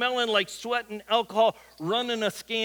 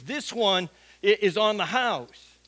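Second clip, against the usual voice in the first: "one" leaned on, slower and a bit louder; stress on one; 4 dB louder, slower than usual. Retold or imitated. Homeless guy offers Nathan a free shine, stressing "one". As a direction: punch the word "one" in "This one". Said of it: "he emphasized the word one".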